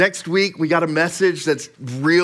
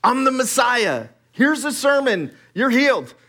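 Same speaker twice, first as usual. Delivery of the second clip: dramatic casual Jesus; 4 semitones higher than usual. Retold or imitated. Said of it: "be like".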